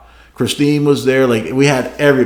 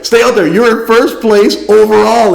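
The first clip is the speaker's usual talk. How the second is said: mock shout, higher and louder, slowing on first place overall; imitating a radio shout; 9 semitones higher, 6 dB louder than usual. Racer retelling crew chief's order to stay out, mock radio shout. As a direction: bark it like a crew chief yelling over race radio. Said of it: "Perry gets on again".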